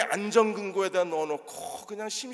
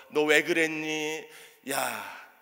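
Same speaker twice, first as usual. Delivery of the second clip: mock-impressed jab, some lines slowed right down; sarcastic teasing; 2 semitones higher, 4 dB louder, slower than usual. Jesus pretending to tease Peter for denying him, sarcastic. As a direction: needle him with fake admiration. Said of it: "주님이 이러셨나요?".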